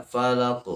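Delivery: "falaq" with an extra glottal catch after the q; added hamzah. Shown as a demonstration. Teacher shows the faulty ending, "falaq" plus hamzah. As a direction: tack a hamzah onto the end of "falaq". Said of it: "jangan ditambah".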